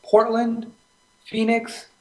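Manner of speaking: high-pitched, incredulous run-down; shocked. Real, not acted. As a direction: sound shocked by the standings. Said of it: "I love how shocked you are".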